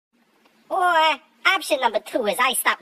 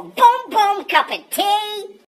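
gleeful; 9 semitones higher, much slower than usual. Pretend. Savouring the morning tea.

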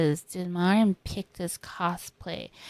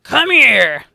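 calling; 5 semitones higher, 10 dB louder than usual. Retold or imitated. Mom reaching for a kiss.

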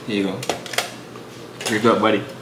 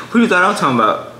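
indignant; 5 semitones higher, 6 dB louder, faster than usual. Real, not acted. Indignant reply after a shriek.

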